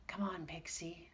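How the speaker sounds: soft urgent whisper. Acted. Peter whispers to Pixie to flee. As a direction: hush it urgently. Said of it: "whispered Peter".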